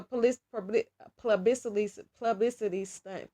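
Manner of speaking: real stumble from rushing; tripping over words. Real, not acted. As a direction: rush and trip over the word. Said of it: "I'm talking too fast".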